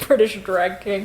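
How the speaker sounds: a real chuckle on every word; laughing through words. Real, not acted. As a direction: giggle it out. Laughing while adding a joke.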